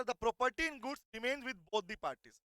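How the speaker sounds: slow, deliberate reading of the law text; slow dictation. Shown as a demonstration. Teacher dictating slowly to students. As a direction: dictate each word slowly to the class. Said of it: "कह रहा".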